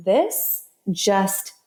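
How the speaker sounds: slow, deliberate inner-voice warning; measured pronouncement from within, drawn out. Retold or imitated. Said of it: "that's when the same voice says".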